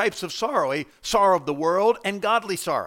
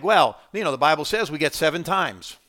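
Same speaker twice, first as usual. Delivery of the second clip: mock excuse-maker; 5 dB louder than usual. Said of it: "I don't think".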